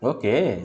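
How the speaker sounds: "ओके" swooping up and back down; rise-fall "ओके" to show a feeling; tone demo. Shown as a demonstration. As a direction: swing the pitch up then down through "ओके". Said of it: "आप feeling कैसे".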